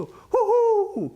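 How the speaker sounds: high, drawn-out delighted "hoho"; a long, high gleeful hoot. Real, not acted. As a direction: hoot with glee at the numbers. Reacts to huge trading volume.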